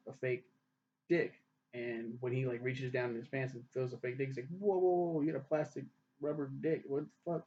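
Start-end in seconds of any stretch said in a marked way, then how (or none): 4.5-7.4 startled whoa. Retold or imitated. Ian feels the fake dick.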